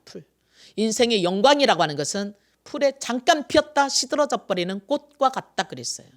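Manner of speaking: usual speaking voice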